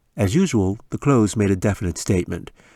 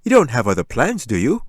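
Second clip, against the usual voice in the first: mock surprise; 4 semitones higher, 5 dB louder than usual. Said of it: "Dad suddenly looked surprised and disappointed".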